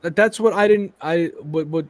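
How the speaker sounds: stumbling over the words; stuttering. Real, not acted. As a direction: restart the phrase, tripping over words. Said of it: "I'm stuttering like a son of a bitch here".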